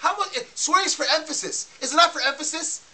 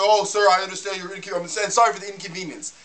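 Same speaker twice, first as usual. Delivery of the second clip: a lightly voiced, lower, scripted apology; polite call-centre agent; 5 semitones lower than usual. Caller mocking the Manila support agent, lightly voiced scripted politeness. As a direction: mimic the agent reading his apology script. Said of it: "not say".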